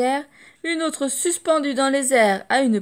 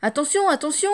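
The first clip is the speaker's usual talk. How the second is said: put-on children calling out; 6 semitones higher, 3 dB louder than usual. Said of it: "lui crient les enfants".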